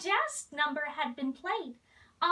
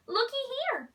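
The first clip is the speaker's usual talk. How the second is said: mild shout; 7 semitones higher than usual. Acted. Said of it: "shouted one of the cooks".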